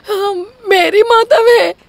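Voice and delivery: slow sobbing lament, drawn out; wailing cry. Acted. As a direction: wail that her husband fooled her. Wife wailing over betrayal.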